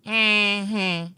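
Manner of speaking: mm-hmm pitched high and doubtful, not buying it; a skeptical high mm-hmm; disapproving mm-hmm. Shown as a demonstration. Chuck's wife responding to him skipping work, skeptically. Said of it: "And then it's just like".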